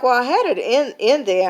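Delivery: defensive little comeback; retold attitude. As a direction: push back with some irritated attitude. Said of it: "I kind of had an attitude".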